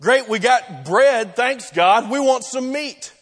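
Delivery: a touch of sarcastic complaining. Retold or imitated. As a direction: grumble like an ungrateful crowd, lightly acted. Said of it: "they start complaining that it's not enough".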